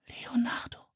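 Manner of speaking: breathless whisper of wonder; awed whisper. A narrator's reading. Anne whispers, amazed to see Leonardo. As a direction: whisper his name in awe. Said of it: "flüsterte Anne".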